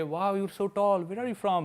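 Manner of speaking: slow, drawn-out British English voice; mock British accent teasing a guy. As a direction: imitate a British girl, lightly. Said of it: "British accent में बोली".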